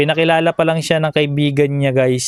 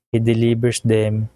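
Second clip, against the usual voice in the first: laughing; 3 semitones lower, slower than usual. Real, not acted. Reading verse, laughing.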